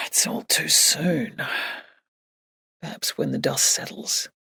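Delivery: soft, subdued, at a loss; a little helpless. A narrator's reading. Jake has no answer for Emily, a little helpless. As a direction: say it softly, slowing with helplessness. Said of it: "a little helplessly".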